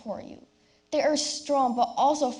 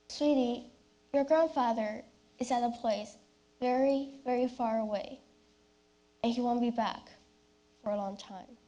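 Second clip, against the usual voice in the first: gentle sad mother; 3 dB quieter than usual. Acted. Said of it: "face was deathly pale".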